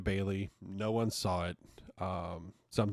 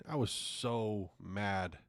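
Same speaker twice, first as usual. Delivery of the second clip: drawn out slowly and softer, trailing off; slow deflated mutter; 5 dB quieter, much slower than usual. Real, not acted. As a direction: let the anger drain out, slowly. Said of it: "I, I was so mad".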